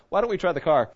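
imitating mild, skeptical sarcasm; a bit sarcastic. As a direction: suggest it with a touch of sarcasm. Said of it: "he said it with a bit of sarcasm".

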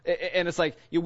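ordinary delivery

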